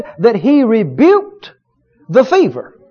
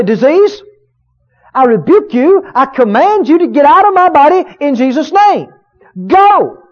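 commanding rebuke; 4 semitones higher than usual. Shown as a demonstration. Preacher showing the congregation how to rebuke disease, commanding. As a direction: speak the rebuke with rising authority. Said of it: "look your problem right square in the face and say".

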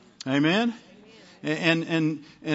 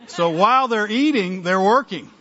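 laughing; 5 semitones higher, 5 dB louder than usual. Real, not acted. Laughing at the sheep joke.

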